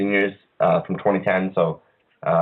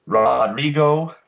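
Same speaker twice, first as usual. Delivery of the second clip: slow, raised, drawn-out name; mock announcer; 5 semitones higher, 3 dB louder, much slower than usual. Host cues co-host for guest's name, mock announcer. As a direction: stretch the name out like an introduction.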